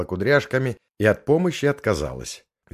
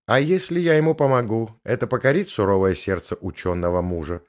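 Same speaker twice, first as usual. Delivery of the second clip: higher, louder, eager hope; starry-eyed; 3 semitones higher, 4 dB louder than usual. Acted. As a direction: dream out loud, eyes shining. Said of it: "с блеском в глазах спросила".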